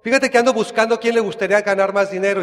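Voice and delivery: a friend reworded as a salesman hooking recruits, in a hint of sales patter; salesman pitch. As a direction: pitch it like a recruiter selling a business deal. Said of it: "Así como en el negocio, ¿no?".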